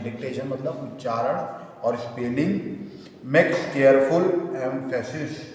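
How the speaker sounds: slow dictation, word by word. Acted. Teacher dictating notes for students to write, slow dictation. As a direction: dictate in separated chunks with long pauses.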